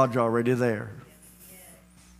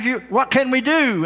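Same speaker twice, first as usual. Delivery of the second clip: pleading lion; 10 semitones higher, 4 dB louder than usual. Acted. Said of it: "And the lion says".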